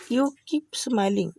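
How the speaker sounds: very slow, each word spelled out; slow teaching demo. Shown as a demonstration. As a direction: say it slowly for learners to copy. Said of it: "आप English में क्या बोलेंगे". (धीमे-धीमे, साफ़ उच्चारण में)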